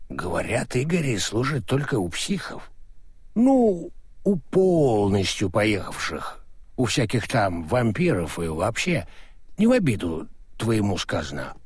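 put-on drunk, gossiping carelessly; slurring drunk. Drunk Crispin rambling on.

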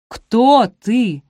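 loud, hard repeated question; insistent demand. A narrator's reading. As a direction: hammer the question at her. Benedict presses her again.

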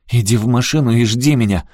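high, loud order; commanding. A narrator's reading. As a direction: order someone off sharply. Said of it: "приказала Аляска".

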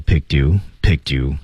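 "picked you" joined as one word; linked picked you. Shown as a demonstration. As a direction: run "picked" straight into "you". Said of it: "小连读".

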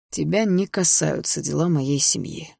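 curt. Acted. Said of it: "отрезал Андрей".

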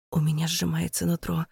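ordinary delivery

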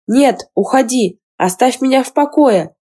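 high panicked shout through a closed door. Acted. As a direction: yell at her to go away. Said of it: "выкрикнула Лисин".

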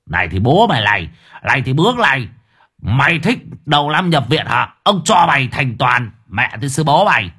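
fast, rough curses with each blow; cursing while beating. Acted. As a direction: punctuate each kick with a curse. Thug beating Kiên while cursing. (vừa đánh vừa chửi)

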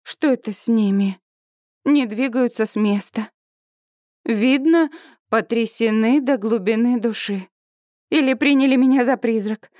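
usual speaking voice

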